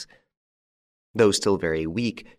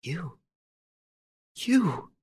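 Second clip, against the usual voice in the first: stammered; 10 semitones higher than usual. Acted. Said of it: "She stammered".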